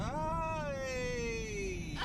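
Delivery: high excited whoop; excited cheer. Real, not acted. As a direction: cheer it out loud. Cheering at the sign.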